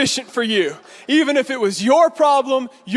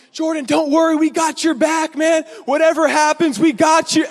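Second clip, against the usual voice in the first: slightly raised voice of an eager buddy; friends' reassurance; 4 semitones higher than usual. Retold or imitated. Friends to the panicking driver, lightly mimicked eager reassurance. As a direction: lightly imitate pals backing up a friend.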